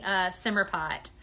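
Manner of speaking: ordinary delivery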